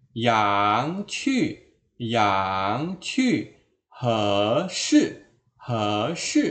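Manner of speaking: YANG, HE rising, QU, SHI falling; direct tone spelling. Shown as a demonstration. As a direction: lift YANG and HE, drop QU and SHI. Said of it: "begitu caranya". (YANG, HE naik, QU, SHI jatuh)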